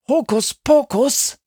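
hoch und spöttisch wiederholt; verhöhnt das Wort; höhnisch. A narrator's reading. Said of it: "höhnt Sami mit unterdrückter Stimme". (gedämpft höhnisch)

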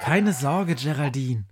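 calm her down in a deep voice; a low, steady reassurance. Acted.

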